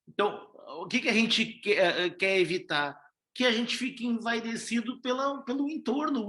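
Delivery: usual speaking voice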